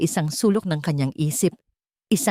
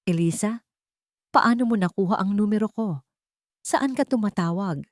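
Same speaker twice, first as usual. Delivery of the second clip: surprised; 3 semitones higher than usual. Acted. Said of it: "Gulat na tanong ni Lorna".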